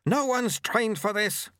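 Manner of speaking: high, slow, forceful retort; growling. A narrator's reading. Sweeper answers apprentice's complaint mid-run, growling. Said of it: "growled Lutze".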